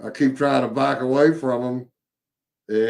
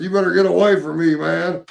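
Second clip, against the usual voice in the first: higher, louder and fast threat; retold yell with a knife out; mock warning shout at the stranger; screaming at him; 5 semitones higher, 3 dB louder than usual. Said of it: "I started screaming at him".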